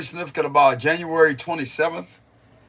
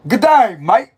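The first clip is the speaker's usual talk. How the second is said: goofy mock Aussie accent, pitched up on the greeting; playful Australian movie-quote impression; Australian accent, imitated; 3 semitones higher than usual. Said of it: "How he says that?".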